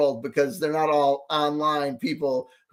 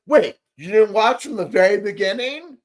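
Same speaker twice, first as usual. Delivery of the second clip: higher, louder mock indignation; mocking critics; 4 semitones higher, 4 dB louder than usual. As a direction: sneer it like a snobby critic. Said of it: "All the critics say".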